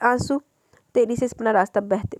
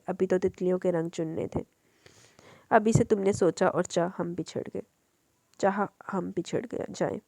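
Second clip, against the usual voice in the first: poem recitation. Acted. (धीमी, उदास नज़्म पढ़ाई)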